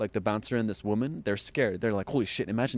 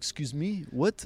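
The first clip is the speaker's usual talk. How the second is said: heavy, put-on French accent, pitched up; 5 semitones higher than usual. Retelling a woman with a clipboard questioning her at the door: put-on very French accent. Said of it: "Like very French".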